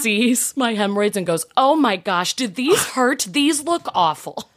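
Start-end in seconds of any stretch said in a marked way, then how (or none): 1.6-4.5 retold shock, pitched high with a laugh; a doctor caught off guard, half laughing. Doctor examining the hemorrhoids, in high laughing shock. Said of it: "she was shocked".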